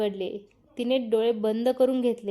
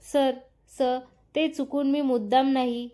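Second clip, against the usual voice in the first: stammering. Acted. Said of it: "ती अडखळत बोलत होती".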